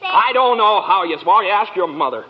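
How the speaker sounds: put-on loud, impatient bark at the child; short-tempered father; irritable snap. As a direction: snap at her, fed up. George snaps at his daughter.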